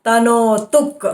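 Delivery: तनोतुक् with the final क् held before the next word. Shown as a demonstration. Teacher demonstrating to students, तनोतुक् with held क्. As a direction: hold the क् at the end of तनोतुक्. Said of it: "hold the ik there".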